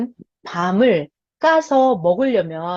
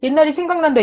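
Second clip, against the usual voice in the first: whining Israelites; 4 semitones higher than usual. Retold or imitated. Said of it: "멍청한 소리를 하는 거예요".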